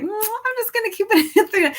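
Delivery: light mock decision, giggling; high, amused self-quote; laughing. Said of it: "So it's like".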